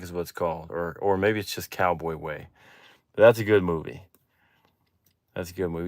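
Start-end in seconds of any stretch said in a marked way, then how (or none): 5.3-5.9 whispered repeat, almost to himself. Real, not acted. Repeating his movie praise to chat, whispered. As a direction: breathe it out with no voice.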